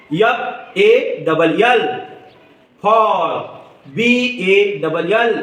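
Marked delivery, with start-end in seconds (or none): 2.8-3.3 "fall" with a long aw vowel; open aw sound. Shown as a demonstration. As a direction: model "fall", stretching the aw. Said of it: "ए चा उच्चार अ असा करायचा". ("fall" मधला ऑ लांबवून)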